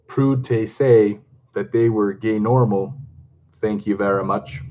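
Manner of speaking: slow, half-hearted Scottish accent; lightly attempted Scottish accent. Shown as a demonstration. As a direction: read it slowly in makeshift Scots. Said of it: "think about a Scottish accent".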